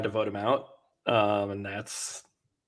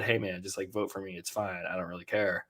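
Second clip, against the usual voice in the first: softer, unbothered imitation; mock casual teammate telling him to vote him out; laid-back shrug; 3 semitones lower, 8 dB quieter than usual. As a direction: toss it off like it doesn't matter. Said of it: "it seems like it said".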